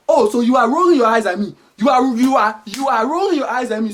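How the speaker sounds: hammed-up African parent telling off; indignant parent. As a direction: accuse the child, working up outrage. Acted parent scolds eye-rolling child.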